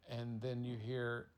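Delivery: ordinary delivery, nothing marked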